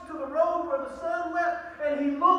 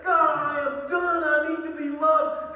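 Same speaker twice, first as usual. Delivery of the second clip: calling out to God; 4 dB louder than usual. Pretend. A sinner crying out to God, loud and pleading. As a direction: cry out that you are done.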